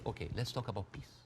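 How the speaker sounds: softly mock-reasonable, with veiled aggression; quiet, falsely conciliatory offer; passive-aggressive. Guest mimicking the other side's peace offer, passive-aggressive. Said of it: "like, passive aggressiveness happening".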